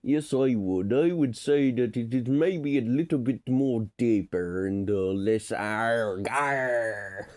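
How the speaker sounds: hammed-up Shakespearean accent edging into pirate. Shown as a demonstration. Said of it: "less like a pirate talk".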